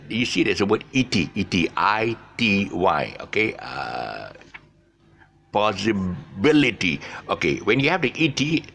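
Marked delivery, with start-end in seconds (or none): 5.5-7.0 "possibility" said slowly with the stress on BIL; possi-BIL-ity, slow teacher demo; shifted stress. Shown as a demonstration. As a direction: break up "possibility", landing on BIL. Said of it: "the stress syllable is shifted to the back".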